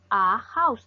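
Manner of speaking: "A house" with an audible H; sounded H. Shown as a demonstration. Teacher contrasts house with the silent-H word, sounded H. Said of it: "sí suena".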